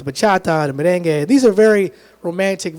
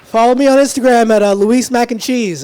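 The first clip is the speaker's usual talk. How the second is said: hyped plug; 5 semitones higher, 5 dB louder than usual. Real, not acted. Closing plug to crowd.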